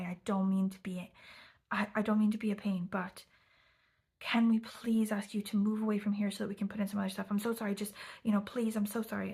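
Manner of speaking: hammed-up plea with halting pauses; overly intensely apologetic. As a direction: imitate an anxious, pleading apology. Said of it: "overly intensely apologetic and ridiculous".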